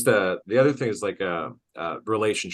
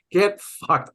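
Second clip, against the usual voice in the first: mock outburst; 11 semitones higher, 5 dB louder than usual. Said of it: "I'm like".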